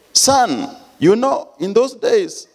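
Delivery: high, slow, laughing sheepish excuse; sheepish grin. Retold or imitated. Caught father excusing his own bad marks to son, sheepish laughing. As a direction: grin through an embarrassed excuse. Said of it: "With a foolish grin on my face".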